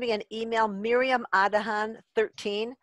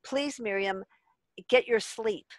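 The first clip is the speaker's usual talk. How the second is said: loving inner voice; 3 dB quieter than usual. Retold or imitated. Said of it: "another voice in my head that says".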